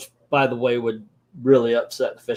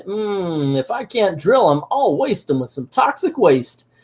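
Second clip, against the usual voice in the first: higher-pitched cartoon villain; scheming villain; 5 semitones higher than usual. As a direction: plot aloud like a cartoon baddie, lightly voiced. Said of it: "we got Piggly Wiggly here".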